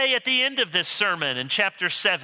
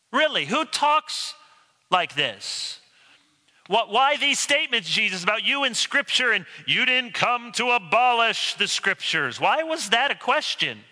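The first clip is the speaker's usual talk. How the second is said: raised pitch, baffled questioning; incredulous challenge; 4 semitones higher than usual. Acted. Skeptic asking Jesus why these statements, incredulous. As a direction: push back in disbelief.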